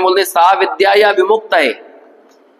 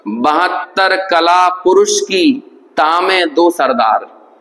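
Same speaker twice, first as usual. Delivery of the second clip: slow, measured verse recitation; reciting a verse; much slower than usual. Shown as a demonstration. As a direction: draw out each word of the couplet. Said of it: "Banarasi Das जी ने". (धीमे, ठहरकर दोहा पाठ)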